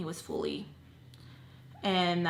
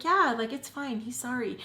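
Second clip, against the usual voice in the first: higher, breezy dismissal; light, higher reassurance to his worried sister; brushing it off; 4 semitones higher than usual. Retold or imitated. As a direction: wave off the sister's worry airily.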